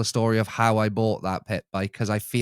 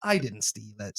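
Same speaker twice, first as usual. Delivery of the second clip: softer, muttered repeat of the denial; quiet repeat; 3 semitones lower, 6 dB quieter than usual. Retold or imitated. To himself after buying the bike, a softer self-reassuring repeat. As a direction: say it again, quieter, convincing yourself. But I was like.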